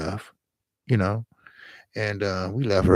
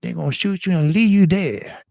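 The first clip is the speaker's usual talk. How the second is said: high, tearful scolding of his friend; crying scold; 9 semitones higher than usual. Retold or imitated. Scolding his friend after the robbery, high and tearful. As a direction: scold him while sobbing. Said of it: "crying and saying".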